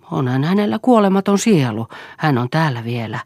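ordinary delivery, nothing marked

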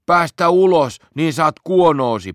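high, loud squealing threat. Acted. Trapped in the cellar, threatening Otso: squealing high and loud. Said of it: "Pätkä kimitti".

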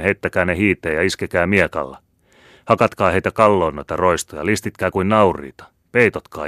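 kovaääninen raivoisa komento houreissa; houraileva sotahuuto. Acted. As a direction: huuda kuin johtaisit ratsuväen rynnäkköä. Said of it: "houreissaan yhä vievinään suomalaisia poikia". (kuumeinen Larsson huutaa pohjalaisille miehilleen, raivoisasti ja kovaa)

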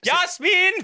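high parental name call; huutaa lasta nimeltä. Acted. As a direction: call an imaginary child across the pool. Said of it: "Saattaa nimikin vaihtua". (esitetty kimeä nimihuuto)

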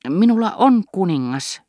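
proud announcement. Acted. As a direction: slap the king down on the table. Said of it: "ilmoitti Morel".

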